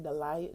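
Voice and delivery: "delay" slipping toward "de-lie"; mixed-up word. Shown as a demonstration. Showing the word she kept saying, "delay" mispronounced as "de-lie". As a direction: say "delay" with its last vowel like "lie". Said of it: "I keep mixing up these words".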